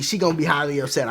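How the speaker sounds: fast throwaway "she gonna be highly upset"; fast, light restatement of "highly upset"; quick repeat. Shown as a demonstration.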